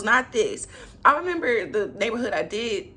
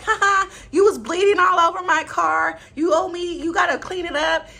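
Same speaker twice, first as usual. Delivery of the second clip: higher, louder joking quote; mocking laughter; 8 semitones higher, 5 dB louder than usual. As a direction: imitate them laughing it off. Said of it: "making light of this".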